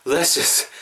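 "Let's just" as one blended "les-jas"; linked model pronunciation. Shown as a demonstration. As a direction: join "Let's just" and drop the final t. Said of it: "이렇게 하시면 좋을 것".

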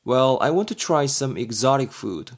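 very slow, careful English line; slow example read. Shown as a demonstration. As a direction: spell it out for learners. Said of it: "B가 말합니다". (천천히 예문 읽기)

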